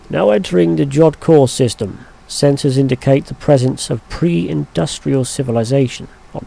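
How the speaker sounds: announcer-like readout of sensor reports; reading game dialogue aloud. Acted. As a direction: read it like a ship's officer. Reads ship computer lines.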